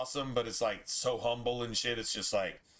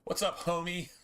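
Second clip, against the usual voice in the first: greeting pitched up a bit; casual hello to a friend's mom; friendly greeting; 6 semitones higher than usual. Real, not acted. That's just James's mom.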